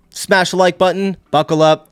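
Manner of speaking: loud, high hype call; hyped intro. Acted. Youtuber revving up viewers, loud and high. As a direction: pump up the viewers.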